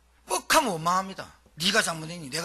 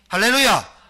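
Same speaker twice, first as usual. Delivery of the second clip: loud call of hallelujah; shouted hallelujah; 3 semitones higher, 10 dB louder than usual. Real, not acted. Preacher rousing the congregation, loud hallelujah. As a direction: rouse the church with it.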